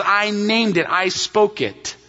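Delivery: "named" and "spoke" each landed firmly; emphatic. Acted. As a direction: declare it, slowing on "I spoke it". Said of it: "You see how emphatic he is here".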